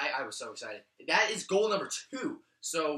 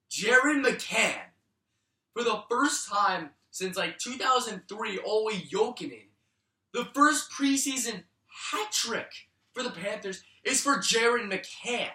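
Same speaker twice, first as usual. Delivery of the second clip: higher, louder, slow dramatic announcement; slow, thrilled hat trick announcement; hyped hat trick call; 5 semitones higher, 4 dB louder than usual. Real, not acted.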